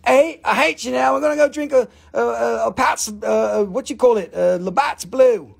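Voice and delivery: mock Canadian. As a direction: lightly put on a Canadian accent, groping for words. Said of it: "There's probably no Canadians here".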